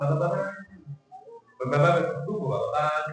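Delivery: mushy babbled "bapak-bapak"; lightly mimicked child babble on "bapak-bapak"; imitating unclear child speech. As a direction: run "bapak-bapak" together like a toddler's indistinct babble. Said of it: "ngomongnya nggak jelas".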